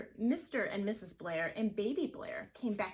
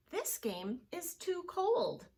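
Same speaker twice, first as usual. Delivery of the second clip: somebody; 10 semitones higher, 3 dB louder than usual. Acted. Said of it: "said somebody".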